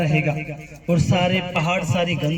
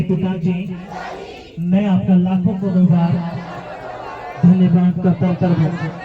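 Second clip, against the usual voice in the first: loud thanks; 3 semitones lower, 3 dB louder than usual. Shown as a demonstration. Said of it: "कहेंगे".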